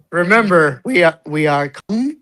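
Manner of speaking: lightly voiced serene instructor, slowing; soothing yoga teacher. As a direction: ease into it, slow and dreamy. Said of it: "gay yoga teacher voice".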